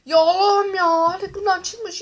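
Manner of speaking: whiny fake sob, drawn out slowly; mock crying. Opening packs, fake-sobbing at yet another duplicate card. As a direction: wail in mock despair over the card. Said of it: "diye ağlamaya başlıyor".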